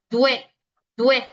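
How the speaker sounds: due run together as one syllable; misread due. Retold or imitated. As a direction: say due as a quick glide, vowels merged. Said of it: "me lo leen como".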